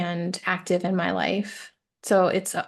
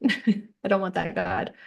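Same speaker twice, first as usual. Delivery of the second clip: slower, with a laugh; slower than usual. Real, not acted. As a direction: laugh through it as you repeat it.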